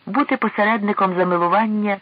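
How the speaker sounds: high, amused exclamation; a touch of merriment in a lifted voice; merry. A narrator's reading. King jokes about playing go-between, merrily. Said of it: "весело засміявся король".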